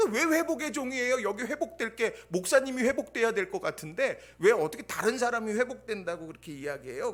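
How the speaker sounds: a loud, puzzled challenge; incredulous loud question. Retold or imitated. Pastor pressing his host with a loud, disbelieving question. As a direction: raise the voice in disbelief, pressing for an answer.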